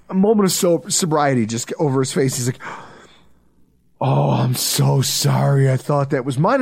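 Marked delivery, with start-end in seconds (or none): 4.0-6.6 a hint of a sobered-up drunk; sheepish drunk apology.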